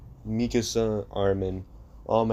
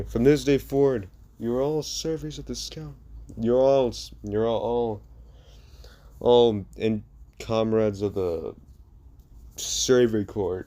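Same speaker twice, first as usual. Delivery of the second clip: commanding captain; 3 semitones higher than usual. Acted. Captain's formal address.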